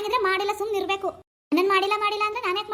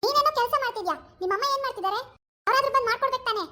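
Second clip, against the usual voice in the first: mocking the daughter-in-law; 6 semitones higher than usual. Mother-in-law mimics lazy daughter-in-law demanding bed coffee. Spoiled wife voiced.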